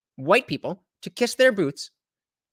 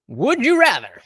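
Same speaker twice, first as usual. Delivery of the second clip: whisper; 5 semitones higher, 7 dB louder than usual. Real, not acted. Teasing poll question to audience.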